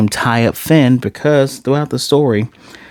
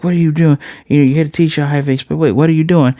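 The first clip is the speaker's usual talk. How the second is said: higher-pitched, hurried mock alarm; raised pitch, a touch of disbelief; alarmed protest; 5 semitones higher, faster than usual. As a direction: imitate someone protesting in mild panic. Retold victim protests as hole is dug.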